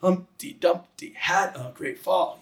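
slow, beat-by-beat nursery rhyme; sing-song Humpty Dumpty; rhythmic nursery rhyme reading. Shown as a demonstration. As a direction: read it slowly, beating out each stress. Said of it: "You get the da, da".

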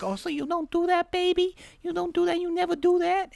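high-pitched mock girlfriend voice; imitating girlfriend. Voicing girlfriend questioning him.

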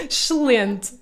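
excelente with the vowels swallowed, ʃlẽnt; Portuguese excelente. Shown as a demonstration. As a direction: eat the E's in excelente. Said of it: "comemos quase todos os E's".

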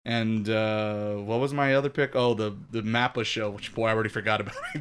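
underwhelmed by your own pick; unenthused. Real, not acted. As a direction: trail through it with little enthusiasm. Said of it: "you sound excited about your picks".

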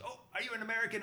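high, surprised question; excited cop. Retold or imitated. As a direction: imitate a delighted Irish cop. Acted cop spots an American.

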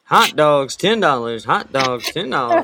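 New York hot dog vendor's cry; New York accent. Acted. Hawking hot dogs, mock New York accent. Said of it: "that's New York".

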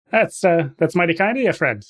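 lightly put-on Canadian; Canadian accent. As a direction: play a friendly Canadian trapper. Game master voicing Canadian trapper.

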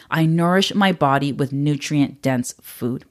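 slow, deliberate affirmation; slow mantra recital. Shown as a demonstration. Offering listeners a mantra, slow and deliberate. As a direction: lay each word down slowly. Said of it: "So that mantra again is".

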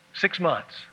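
a clueless guy counting, no feeling; blank Roger. Acted. Roger counting the months after Elaine's remark, blankly. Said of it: "And Roger is thinking".

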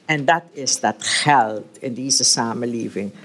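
reading a novel aloud to the group, voicing the characters; steady read-aloud narration with mild character voices; story reading. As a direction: tell it like a storyteller, lightly acting each figure.

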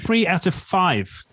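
slow, stunned disbelief; surprised. Real, not acted. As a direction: echo it back in shock. Stunned echo of statistic.

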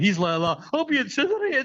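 high squealing panic; terrified pilot. Retold or imitated. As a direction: squeal it in terror. Pilot shitting himself.

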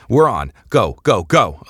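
high, loud urgent yell. A narrator's reading. Eliza to the pilot, urging takeoff, loud yell. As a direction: shout it to get the ship moving. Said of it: "Eliza yelled".

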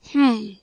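short loud throat-clearing cough. Acted. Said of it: "coughed Carruthers".

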